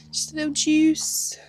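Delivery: high breathy whisper; whispered plea. Real, not acted. Repeats juice wish, whispered.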